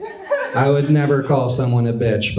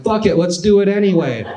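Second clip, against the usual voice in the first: a mild hammed-up daring dancer, higher; bold dancer; 8 semitones higher than usual. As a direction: shrug off the crowd and commit. Dancer decides boldly.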